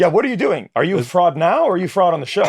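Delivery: hammed-up disbelief, firing off questions; mock incredulous. Retold baffled questioning of co-star.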